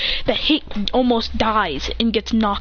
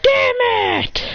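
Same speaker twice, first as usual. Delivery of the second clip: high, loud exasperated curse; real frustration bursting out; annoyed outburst; 13 semitones higher, 3 dB louder than usual. Real, not acted. Kid annoyed by a stupid ad, loud curse.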